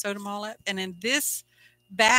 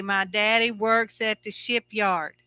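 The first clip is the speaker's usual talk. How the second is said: talking while holding the tongue; tongue sticking out; 3 dB louder than usual. Shown as a demonstration. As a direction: say it with your tongue held. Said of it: "Hold your tongue and say".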